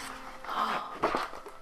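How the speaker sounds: soft drawn-in gasp of wonder; hushed show-and-tell gasp; playful gasp. Pretend. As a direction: gasp softly as if amazed. Mock gasp at the picture.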